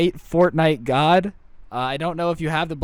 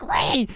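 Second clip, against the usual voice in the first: banshee scream; 4 semitones higher than usual. Retold or imitated. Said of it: "screams like a banshee".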